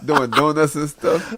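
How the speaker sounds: put-on shaky slowed old man voice. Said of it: "put your old man voice on".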